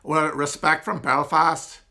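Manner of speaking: put-on slow, failed Northern Irish accent that drifts Scottish; a lightly tried Belfast accent, slowed down; attempted Belfast accent. Sending respect to Belfast fans in a shaky Belfast accent. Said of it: "Oh, that just sounded Scottish".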